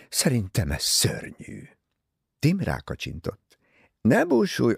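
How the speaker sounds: usual speaking voice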